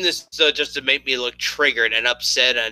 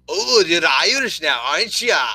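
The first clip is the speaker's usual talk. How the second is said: put-on a light, half-hearted Irish accent; mock Irish accent; 3 semitones higher than usual. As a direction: tease him in a barely-there Irish brogue. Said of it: "That's the best Irish accent I've ever heard".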